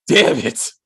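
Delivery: unvoiced whispered damn it; whispered curse. Real, not acted. Reviewer curses to himself, whispered. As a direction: curse under your breath. Mutters aside after pause.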